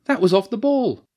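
loud, high protest; high, exasperated shout; almost screaming. A narrator's reading. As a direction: yell at the ref, just short of a scream. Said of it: "Nancy almost screamed at this time".

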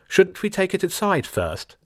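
blocked-nose voice. A narrator's reading. Wide Boy asking in a blocked-nose voice. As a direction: talk as if your nose is blocked. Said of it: "spoke like he had a cold and his nose was blocked".

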